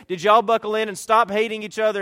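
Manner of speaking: loud, exasperated car-ride mom; mock-yell at kids in back seat; frazzled mom yell.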